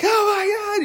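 very high, loud squeal; mock freak-out. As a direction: imitate young boys losing their minds. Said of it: "all the boys in the room just freak out".

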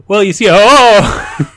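mock interviewee cracking up, high and loud; laughing. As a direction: blurt it out through laughter. Mock job interview with twins.

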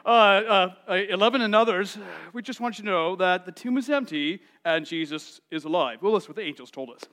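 lightly voiced stiff, calm announcement; deadpan it like a dull memo; a hint of a flat formal report; mock calm report. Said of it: "they come in calmly and say".

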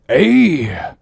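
captain perking up at good news; cheered cry. A narrator's reading. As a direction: burst out, then ease down. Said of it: "cried Ahab".

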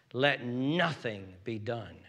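slow, weighted "nothing"; stress on nothing. Shown as a demonstration. Preacher returns to Paul's verse, stressing "nothing". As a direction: dwell on the word "nothing". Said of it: "I'm emphasizing that word".

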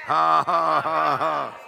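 loud, forceful ha-ha-ha; demonstrated laughing. Shown as a demonstration. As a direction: belt out a deliberate laugh. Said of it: "You need to practice that".

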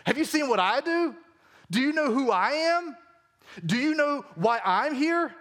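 a touch of defiant Jesus; bold challenge. Acted. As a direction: throw the questions out confidently. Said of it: "He said".

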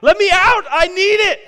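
high, full-force scream; frantic captain yelling at the top of the voice; desperate screaming. Acted. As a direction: scream to be set free. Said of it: "he just starts screaming".

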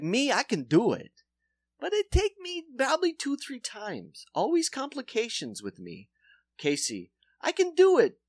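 put-on high, boastful Polish accent; mock Polish dentist bragging.

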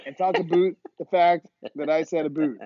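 playful put-on Canadian accent, "hoose" and "eh"; mock Canadian accent. Teasing their one Canadian subscriber, mock Canadian accent. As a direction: tease the Canadian fan in a light Canadian accent. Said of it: "I wish I was from Canada so I could say a boot".

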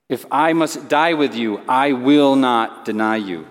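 firm vow, slowing on the refusal; emphatic. Retold or imitated. Peter promises Jesus he is willing to die, emphatic. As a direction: pledge it with measured emphasis. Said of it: "emphatically, he responds to Jesus".

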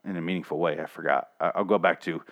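mock Daryl mumble. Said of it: "he's like".

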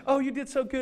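lightly gushing compliment; women praising him, sweetly; sweet praise. Retold or imitated.

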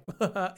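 short mock giggle; imitated audience laugh. Mimicking moviegoers amused by English-sounding words, short mock laugh. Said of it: "there's just the reaction of".

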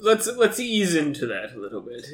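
lightly voiced stern professor; a hint of a fussy academic. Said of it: "my professor voice".

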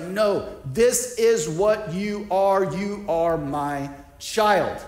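slow, each word stressed in "this is what you are"; insistent. Retold or imitated. Jesus shakes you by the shoulders, insistent. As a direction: drive home "You are my child" word by word, slowly. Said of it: "he grabs your shoulders, maybe even shakes you".

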